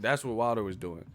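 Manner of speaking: ordinary talk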